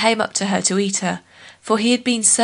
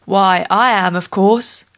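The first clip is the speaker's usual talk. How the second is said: boastful lion; 4 dB louder, slower than usual. Acted.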